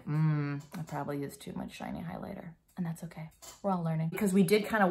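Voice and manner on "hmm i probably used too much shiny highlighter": thinking to oneself. Acted. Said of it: "And you'll think".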